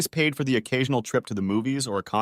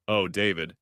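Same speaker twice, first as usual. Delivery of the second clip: on the verge of tears; 4 semitones lower than usual. A narrator's reading. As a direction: voice near to breaking. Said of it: "She seemed to be on the verge of tears".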